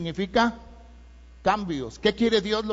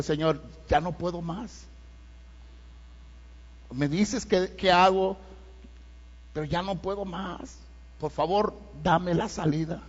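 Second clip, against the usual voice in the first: quiet pleading prayer; 7 dB quieter than usual. Retold or imitated. Retold desperate prayer.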